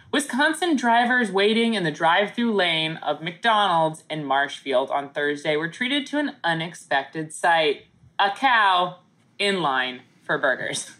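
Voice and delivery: news anchor read; newscaster voice. Acted. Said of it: "doing your newscaster voice".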